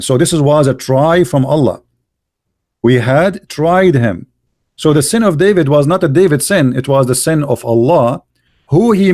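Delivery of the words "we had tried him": very slow, "tried" drawn out and falling; slow, emphatic repeat. Shown as a demonstration. Hammering the verse home to the opponent, very slow. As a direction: spell out "We had tried him" slowly. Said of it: "It says that we had tried him".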